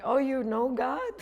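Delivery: mocking inner voice. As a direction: needle them like a nagging inner voice. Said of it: "I hear this voice telling me".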